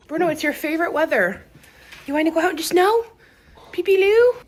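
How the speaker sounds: high, loud pet-talk voice; talking to a dog. Acted. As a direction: coo excitedly at the dog.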